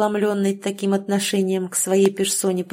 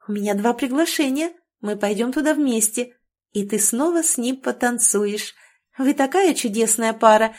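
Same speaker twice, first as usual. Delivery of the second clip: lightly voiced languid purr; a hint of a lazy, sultry voice; 3 semitones higher than usual. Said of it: "томным голосом продолжила".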